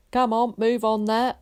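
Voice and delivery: loud, high, brusque command; loud brusque order. A narrator's reading. Warden herding people to the shelter, loud and brusque. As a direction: herd the crowd along, loud and brusque. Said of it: "said a loud, brusque voice".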